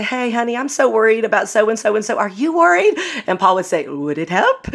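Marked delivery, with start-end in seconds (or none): 0.0-2.9 rising higher to a high fretful question; worried wife. Retold or imitated. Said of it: "I would go to Paul and say". 3.9-4.7 mock Russian accent, dry and laughing; a playful Russian accent, deadpan question. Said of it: "in that kind of Russian accent".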